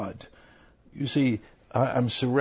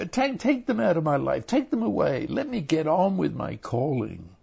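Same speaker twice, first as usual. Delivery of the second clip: desperate prayer; 2 semitones higher than usual. Retold or imitated. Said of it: "he says".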